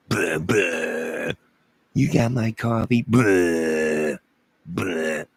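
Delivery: garbled voice heard through a turned-down hearing aid; muffled through hearing aid. Retold or imitated. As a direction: mumble it like sound with the hearing aid off. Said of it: "all I'm gonna hear".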